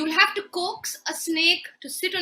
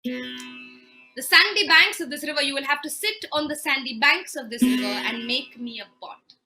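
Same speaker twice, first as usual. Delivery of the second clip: stern orders; 6 dB louder than usual. Acted. Husband ordering his wife to make a sand pot, sternly. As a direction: lay down the impossible task sternly.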